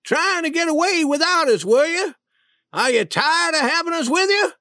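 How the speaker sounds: high-pitched, angry shout; shouted, indignant questions; shouted accusation. A narrator's reading. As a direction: demand an answer, voice pitched right up. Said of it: "shook me by the shoulders and shouted".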